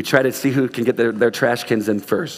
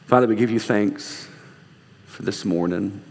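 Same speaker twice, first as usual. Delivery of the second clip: prayer. Acted. Closing prayer.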